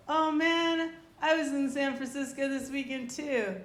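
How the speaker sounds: perky retold exclamation, easing down at the end; imitated dentist. Acting out the dentist's chirpy news.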